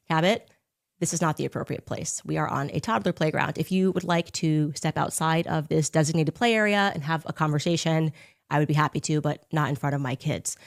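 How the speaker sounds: soft, measured, calm firm tone; steady him down quietly, no fuss; calm firm reassurance. Retold or imitated. Podcaster calmly tells ex-boyfriend not here, soft and firm. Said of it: "So I said".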